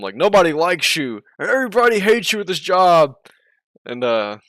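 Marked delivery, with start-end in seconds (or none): 0.1-3.1 mocking accusation, louder and higher; hammed-up jab, higher and louder; retold insult. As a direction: throw it at him like a taunt. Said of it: "the guy told him".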